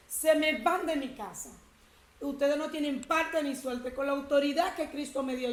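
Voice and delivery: retold rebuke, loud and commanding. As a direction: cast them out, claiming authority. Rebuking spirits with Christ's authority.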